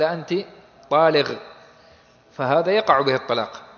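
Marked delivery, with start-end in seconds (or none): 0.0-1.3 "طالغ" ending in gh in place of q; Sudanese-style "طالغ", the final qaf said as ghayn; qaf turned to ghayn. Shown as a demonstration. Teacher imitating a Sudanese husband, "طالغ" with ghayn for qaf. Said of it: "فأبدل القاف ... غين، قال".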